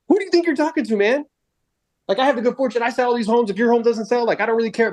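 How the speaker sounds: high-pitched mock indignation; retold angry retort. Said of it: "but I would get angry".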